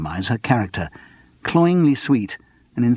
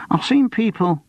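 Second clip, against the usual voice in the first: higher, hesitant bar youth voice; cautious; 11 semitones higher than usual. A narrator's reading. The spotty youth cautiously offers Charles an idea, higher voice. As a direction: offer it warily. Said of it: "he offered cautiously".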